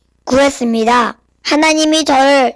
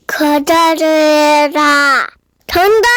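giant voice; much slower than usual. Acted. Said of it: "큰 소리로 말하는 거예요".

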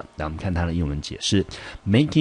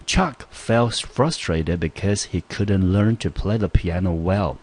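slow, careful reading of the example; example sentence read aloud; 2 semitones higher, slower than usual. Shown as a demonstration. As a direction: read the sentence slowly for students. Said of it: "来，我们看这个例句". (慢速朗读英文例句)

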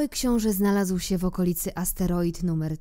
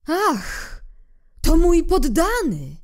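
loud, higher royal exclamation; king calling out; 11 semitones higher, 8 dB louder, slower than usual. Acted. King spots little prince, calls out loudly. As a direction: proclaim your first subject. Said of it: "zawołał król".

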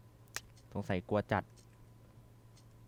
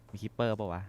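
hushed whisper into the dark; nervous horror-game whisper. Real, not acted. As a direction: whisper it so nothing hears. Sneaking through a dark room.

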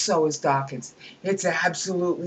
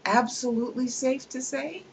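incredulous question; 6 semitones higher than usual. Acted.

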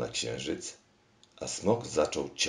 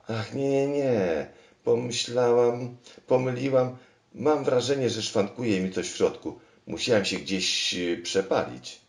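high, louder flustered babble; higher and breathless with alarm at the blunder; 10 semitones higher, 5 dB louder than usual. Acted. Machine caught out before the king, high and flustered.

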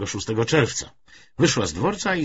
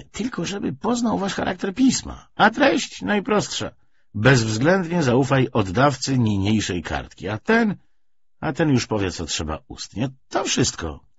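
a hint of a brisk, higher character voice; lightly voiced Gielbach; 6 semitones higher, 3 dB louder than usual. A narrator's reading. Gielbach lightly voiced, explaining the note to Wintoft. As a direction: lightly play the persuasive visitor.

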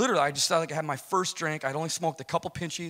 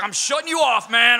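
high, louder mock bartender-buddy; buddy cutting him off; 8 semitones higher, 9 dB louder than usual. Buddy refuses him more whiskey in a high mock voice. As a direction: take the whiskey away. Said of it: "He's like".

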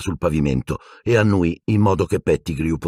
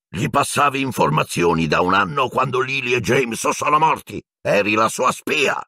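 high-pitched angry outburst, rising; furious accusation; 7 semitones higher than usual. A narrator's reading. Black accusing Pettigrew of spying, furious yelling. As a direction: hurl the charge, climbing higher. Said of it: "urlò Black".

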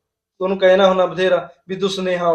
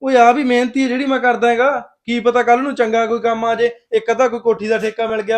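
higher and louder, stung and protesting; defensive raised voice; 4 semitones higher, 4 dB louder than usual. Acted. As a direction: push back hard, insulted. Husband defends his hard work.

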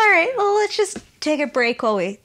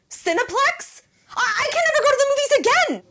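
laughing shout; 11 semitones higher, faster than usual. Acted. Therapist laughing outburst.

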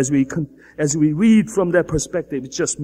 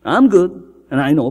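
self-righteous voice; 3 semitones higher than usual. Retold or imitated. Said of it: "person, self-righteous person".

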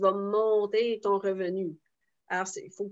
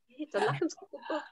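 higher, softer schoolteacher scolding; 7 semitones higher, 6 dB quieter, faster than usual. Pretend. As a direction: scold like a schoolteacher catching a daydreamer. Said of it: "comme une maîtresse d'école".

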